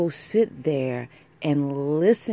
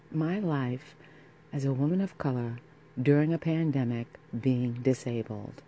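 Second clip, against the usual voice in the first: sultry voice; 3 dB quieter than usual. Real, not acted. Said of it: "with the sultry voice".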